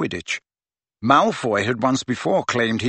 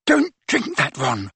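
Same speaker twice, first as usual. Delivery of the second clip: sharp; 2 semitones higher than usual. A narrator's reading. Hermione stops Ron as he raises the glass, sharply. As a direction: cut in sharply to stop him. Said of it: "Hermione spoke sharply".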